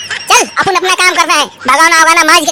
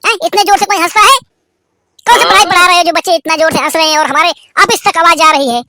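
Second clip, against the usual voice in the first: angry principal; 3 semitones higher, faster than usual. Acted. Principal scolding the teacher about the laughter, angry. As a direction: scold him for the noisy class.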